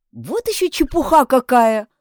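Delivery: a light scoffing laugh in the voice; scoffing retort. A narrator's reading. Lizzie scoffs at the maids' gossip, smirking. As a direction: brush it off with a smirk. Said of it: "возразила с усмешкой Лиззи".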